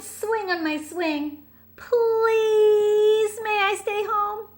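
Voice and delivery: put-on high, loud little-kid whine; crying young raccoon. Chester begging his mother to stay home, whining high. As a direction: plead like a tearful child. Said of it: "stood at the edge of the forest and cried".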